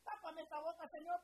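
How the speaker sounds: as if shocked by her own words; a touch of hammed-up alarm; mock surprise. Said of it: "hasta yo me sorprendo y digo".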